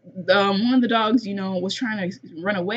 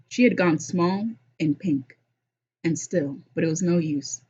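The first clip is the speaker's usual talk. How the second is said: story narration. A narrator's reading. Host reading the dog's escape to listeners, story narration. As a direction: narrate the action evenly from the page. Reads the novel aloud.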